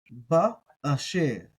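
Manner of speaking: drawn out syllables; slow sounding out. Shown as a demonstration. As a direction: sound it out slowly.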